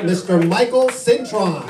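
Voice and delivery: drawn-out announcer shout; stretched, shouted introduction; announcer call. Real, not acted. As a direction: call him up like a ring announcer. Host announcing comic onto stage.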